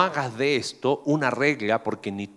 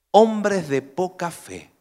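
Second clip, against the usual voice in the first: slow rebuke; 3 semitones higher, 4 dB louder, much slower than usual. Retold or imitated. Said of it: "les contestó".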